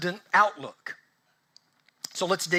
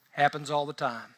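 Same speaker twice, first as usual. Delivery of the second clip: lower, unbothered reply; imitated nonchalance; 5 semitones lower, 4 dB quieter than usual. Dog owners answering a panicked room, nonchalant. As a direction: shrug it off as old news.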